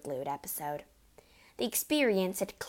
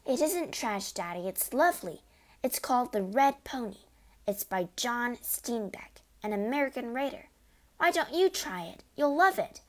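put-on higher, eager child defending her book; earnest little girl; 4 semitones higher than usual. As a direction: plead sweetly for the story. Matilda pleads for her book.

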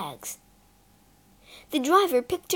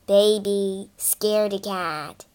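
mocking big brother, lower; older brother mocking his scared sister; teasing; 3 semitones lower, slower than usual. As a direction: taunt her playfully. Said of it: "teased Peter".

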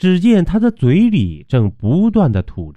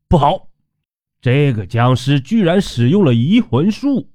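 alarmed cry; 4 semitones higher than usual. A narrator's reading. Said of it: "他惊呼一声".

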